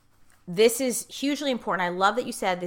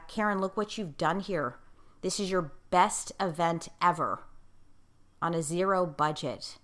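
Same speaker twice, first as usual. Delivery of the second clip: gentle mentor; 5 dB quieter than usual. Retold or imitated. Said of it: "he just said it very gently".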